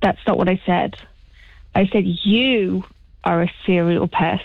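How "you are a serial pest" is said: "you" stressed and said slowly. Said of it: "The emphasis being on the you".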